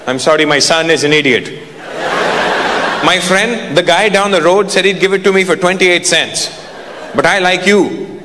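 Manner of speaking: lightly voiced dad sweet-talking a seller; a hint of an apologetic, bargaining dad; haggling father. Dad smooths things over with the attendant, lightly wheedling. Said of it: "my dad would pull up".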